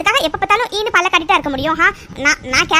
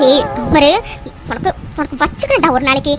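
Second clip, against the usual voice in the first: low-pitched threat to herself; annoyed threat; 4 semitones lower than usual. Acted. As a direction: warn a meddler under your breath. Muttered threat at meddling friend. (கடுப்போடு தாழ்ந்த குரலில் மிரட்டல்)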